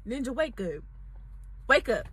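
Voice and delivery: gently waking a sleeping man; hushed wake-up call. Retold or imitated. Waking sleeping boyfriend, retold.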